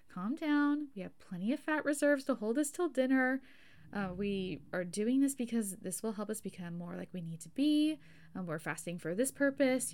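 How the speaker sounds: a lightly voiced calm parent soothing a child; a hint of a patient parent settling a fussy kid. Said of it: "in a parenting kind of way".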